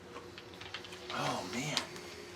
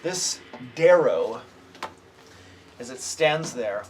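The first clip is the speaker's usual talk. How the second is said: game master narration. A narrator's reading. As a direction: build the creepy monster reveal. GM describes the monster.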